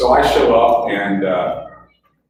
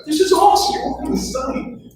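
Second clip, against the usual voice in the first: excited. Retold or imitated. Excited quote repeated.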